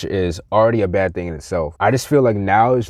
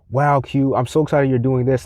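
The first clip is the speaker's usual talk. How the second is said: higher-pitched imitation of a supporter; mock excitement; 4 semitones higher than usual. Fake supporter praises his venture, mimicked with higher-pitched excitement. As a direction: gush in mimicry, not sincerely.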